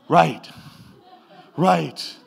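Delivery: loud sheepish laugh on the repeated word; embarrassed laugh. Retold or imitated. Pastor laughing after being told he was only supposed to pray, loud and sheepish. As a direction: laugh it off, caught out.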